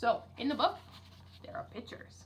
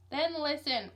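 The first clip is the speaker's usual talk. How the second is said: higher, louder outraged roar; outraged louder outburst; 5 semitones higher, 4 dB louder, slower than usual. Acted. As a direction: roar it, fed up with city hall. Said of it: "roared Mister Popper".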